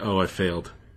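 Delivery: crestfallen, defeated, dejected and downcast voice. Voicing a character who looks down after failing: dejected. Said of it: "looks down like".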